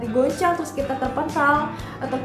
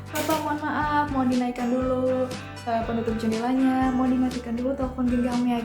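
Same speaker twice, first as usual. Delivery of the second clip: flight attendant. Retold or imitated. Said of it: "ada pramugari yang jalan tuh dicek".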